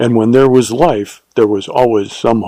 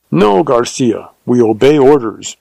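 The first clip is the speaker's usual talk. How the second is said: harsh. Acted. Leader overrules Garcia, understated harsh command. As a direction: shut Garcia down, a touch of steel. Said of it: "returned Juan harshly".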